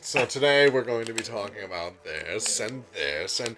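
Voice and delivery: nasally voice. Retold or imitated. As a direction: mimic a nasally professor. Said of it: "He's got this really nasally voice".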